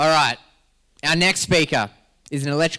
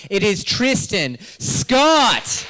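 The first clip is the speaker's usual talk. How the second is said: announcer reveal; 3 semitones higher, much slower than usual. Real, not acted. MC announces the next speaker.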